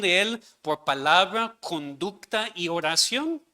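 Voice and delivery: solemn ceremonial question, slowing to a measured pace; formal vow question. Acted. Pastor asks congregation the dedication vow, slow solemn formal reading. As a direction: recite the baptism vow slowly and solemnly to the church. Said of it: "yo como pastor pregunto a la iglesia".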